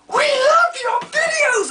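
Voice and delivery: high, loud slow squeal; excited kids. Retold or imitated. Kids telling a YouTuber they love him, squealing high. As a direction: squeal like starstruck fans. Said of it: "they're like".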